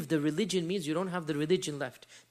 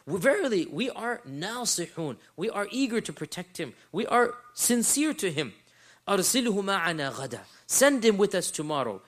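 earnest brothers; 2 semitones higher, 3 dB louder than usual. Acted. Brothers reassure father, asking for Yusuf.

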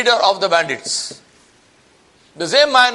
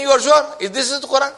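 incredulous bandit; 7 semitones higher, 3 dB louder, faster than usual. Retold or imitated. Bandit doubting the imam.

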